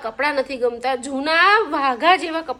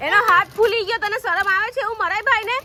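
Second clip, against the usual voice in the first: real telling-off, pitch raised; angry scolding; 6 semitones higher than usual. Real, not acted. Mother showing the brother's swollen hand, scolding angrily. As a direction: scold sharply, voice lifted high.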